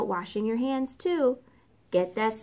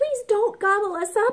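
shrill, very high, loud squealing; 9 semitones higher, 5 dB louder than usual. The three little pigs speak after Big Bad tumbles down their chimney: squealing. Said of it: "squealed the three little pigs".

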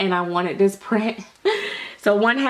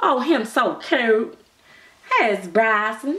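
mock, put-on country accent. Retelling how she keeps asking for bryson: imitating her country accent. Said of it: "She talks so country".

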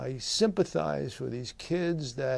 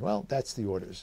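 ordinary talk

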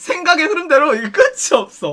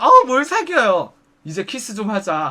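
ordinary talk, nothing marked

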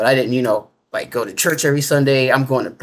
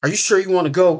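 play-acted stern, severe, forbidding tone, high; 6 semitones higher than usual. Speaker retells what a beetle-faced figure on their left asked them, retelling a stern voice. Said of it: "Like with the sternest voice".

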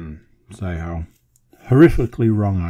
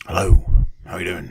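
gruff, rough-sounding opening, faster pace; 2 semitones lower than usual. Podcast host greeting listeners at the start of the episode, with a gruff start. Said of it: "not a gruff voice, just a gruff start".

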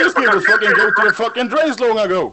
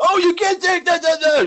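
high, sneering, mocking parody yell; 8 semitones higher than usual. Mocking another player's yelling during an argument: mocking imitation of someone yelling. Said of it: "Your fucking yelling is so fucking retarded".

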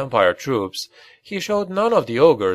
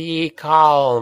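desperate hiss, calm and drawn out; 3 semitones higher than usual. Narrating a laughing man as soldiers approach: desperate hiss. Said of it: "he hissed in a desperate voice".

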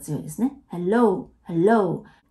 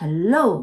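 hello with stress on second syllable -lo; 2 semitones lower than usual. English pronunciation lesson, saying hello with stress on second syllable of hello. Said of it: "Hello はO が強くなります。".

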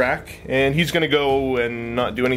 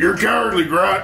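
put-on taunting orc voice, pitched higher; 8 semitones higher, 3 dB louder than usual. Urged by another player to do an orc voice, issuing a challenge: orc voice. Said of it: "Do an orc voice".

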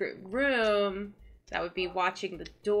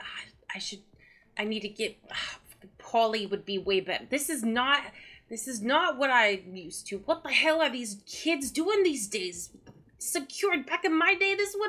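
grumpy muttering, higher; 3 semitones higher than usual. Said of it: "grumbling to himself".

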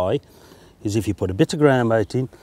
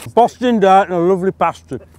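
pitched-up words pushed around a full mouth; 7 semitones higher than usual. Fishing presenter eating a pasty, speaking with mouth full. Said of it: "you shouldn't speak with your mouth full".

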